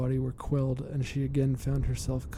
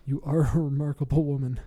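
nervous chuckle; 5 dB louder than usual. Acted. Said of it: "he chuckled somewhat nervously".

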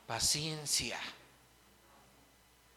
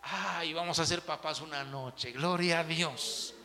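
mock proud new parents; 4 dB quieter, slower than usual. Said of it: "lo acostamos y nosotros".

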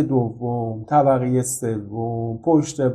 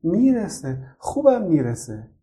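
laughing; 7 semitones higher, slower than usual. A narrator's reading. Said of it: "خندید و گفت".

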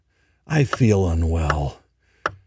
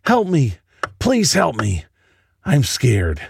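put-on high, begging child's voice; a frightened little girl begging at the door; pleading young girl; 4 semitones higher than usual. Girl pleads with narrator to open, high begging child voice. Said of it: "the young girl pleads".

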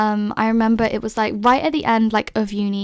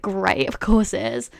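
sarcastic; slower than usual. Retold or imitated. Reply to six-month wait.

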